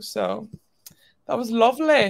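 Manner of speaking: slow, put-on British accent. After praising the listener's parents' cooking, put-on british accent. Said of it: "There's my British accent".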